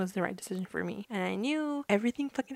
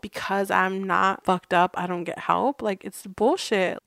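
slow, louder, fed-up venting; angry rant; 7 dB louder, slower than usual. Real, not acted. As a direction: spit out the unfairness, slowly and loudly. Venting about family help.

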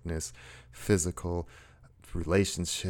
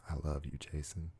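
gentle self-affirmation; 7 dB quieter than usual. Shown as a demonstration. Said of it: "Or even say your name".

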